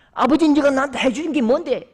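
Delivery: a son's mock-furious shout; defiant retort. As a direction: hurl it back at his father. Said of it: "벌떡 일어서더니".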